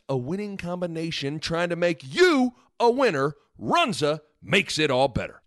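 upbeat sponsor read. Acted. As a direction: read it like a radio ad. Ad read inside podcast.

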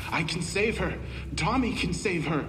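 high, soft, airy ghost voice; airy drifting gas cloud. Acted. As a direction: drift it like wind through a cave. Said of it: "The voice cries out behind me".

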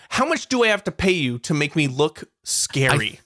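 ordinary delivery

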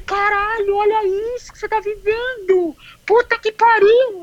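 high, awestruck cry of disbelief; exclaiming in wonder at what she is living; amazed exclamation. Retold or imitated. Runner marvelling as champions pass her, high amazed exclaim.

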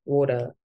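water as waw-tuh, no final r; British pronunciation. Shown as a demonstration. Showing the UK and European way, water as waw-tuh. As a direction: say water with a rounded aw. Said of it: "The U K, like, Europe".

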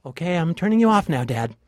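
exasperated daughter shutting Dad off; fed-up daughter. Acted. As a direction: cut him off, you've had enough. Fed up with hologram advice.

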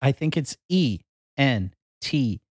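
letters one by one, slowly; spelling it out. Shown as a demonstration. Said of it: "could you spell Entenmann's right now".

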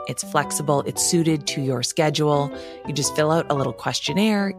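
normal talking voice

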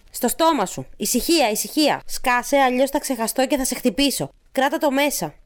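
put-on a touch of menace, pressing the child; mildly scolding. Woman in script orders and threatens. (αυστηρά, επιτακτικά)

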